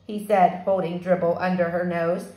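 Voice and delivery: lively read-aloud for a fourth grade class; story narration. A narrator's reading. Teacher reading a chapter book to her fourth graders, animated. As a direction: tell the story to the kids, brightly.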